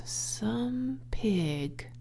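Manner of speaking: soft hushed whisper of Some pig; murmured. Acted. Zuckerman reads the web aloud, murmuring. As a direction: breathe Some pig out in awe. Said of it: "he murmured the words".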